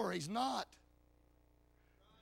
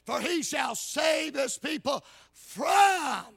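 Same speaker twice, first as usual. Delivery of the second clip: raised preacher's voice, punching key words; fervent scripture preaching; 4 semitones higher, 6 dB louder than usual. Real, not acted. Preacher declaring from Matthew how he saves, fervent preaching. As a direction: proclaim the verse to the congregation.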